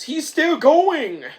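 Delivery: high, loud, slow exclamation; excited cry. Retold or imitated. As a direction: call it out in mock amazement. Acted amazed cry in retold film.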